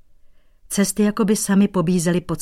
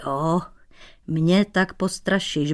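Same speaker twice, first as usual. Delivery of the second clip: grumbling; slower than usual. Acted. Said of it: "bručel si do vousů".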